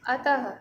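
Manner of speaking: अतः ending in a breathy h; visarga demo. Shown as a demonstration. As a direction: visarga sound. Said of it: "उसको हम बोलते हैं विसर्ग".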